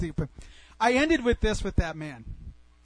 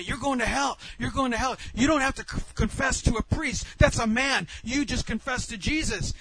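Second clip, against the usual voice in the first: higher-pitched heated accusations; mildly raised, scolding voice; retold yelling; 4 semitones higher than usual. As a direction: imitate a man berating you. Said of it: "he's yelling at me".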